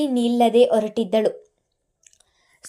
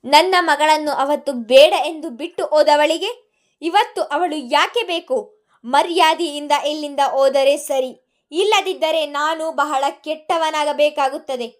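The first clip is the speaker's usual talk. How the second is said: higher, raised angry yelling; screaming; 4 semitones higher, 4 dB louder than usual. Acted. Mithun warning Sonali to leave, yelling. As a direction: threaten her at the top of his voice. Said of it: "ಅಕ್ಷರಶಃ ಕಿರುಚಿಯೇ ಹೇಳಿದ್ದರು".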